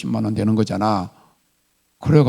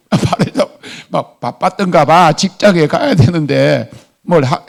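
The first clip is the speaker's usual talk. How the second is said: ordinary delivery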